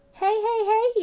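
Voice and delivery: loud high sharp rebuke; stern scolding. A narrator's reading. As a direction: stop the boys right now. Farmer scolding boys.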